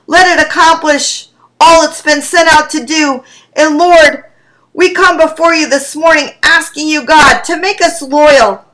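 earnest spoken prayer. Real, not acted. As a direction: ask God humbly for loyalty. Pastor prays after reading.

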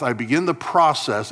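"process" given the weight of the line; stress on process. Shown as a demonstration. Pastor defining sanctification, stressing "process". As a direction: lean on the word "process". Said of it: "emphasis on the word process".

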